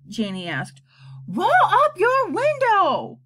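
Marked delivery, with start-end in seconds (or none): 1.3-3.2 slow, high, louder yell; "Roll up your window" yelled slowly and high. A narrator's reading. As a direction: shout it over the wind noise. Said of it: "yelled Bat".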